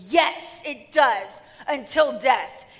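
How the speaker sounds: a lightly voiced sassy sulk ending loud; sulky teen talking back. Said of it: "Jonah gets real sassy and goes".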